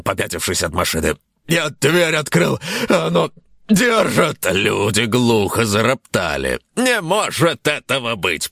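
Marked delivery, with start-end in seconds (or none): 1.5-4.5 panicked. Acted. Semyon panicking about the car. 6.8-8.5 surprised host. Acted. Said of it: "приподнял ведущий брови".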